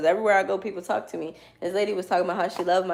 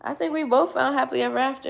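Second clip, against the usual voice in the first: higher, quicker, making it her own; personal opinion; 5 semitones higher, faster than usual. Real, not acted. Making the book's line her own opinion, higher and quicker. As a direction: say it as your own lively conviction. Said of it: "if you ask me".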